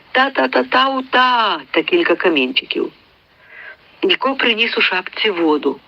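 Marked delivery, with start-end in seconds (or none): 0.1-1.6 put-on mute boy's cry. A narrator's reading. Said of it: "Німий послав їм навздогін своє".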